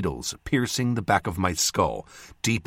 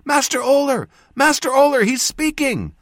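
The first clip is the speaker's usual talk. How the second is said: very high, piercing female shout; 7 dB louder than usual. A narrator's reading. Jas calling the surgeon over, piercing shout. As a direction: shout shrilly for help. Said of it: "she shouted with a piercing voice".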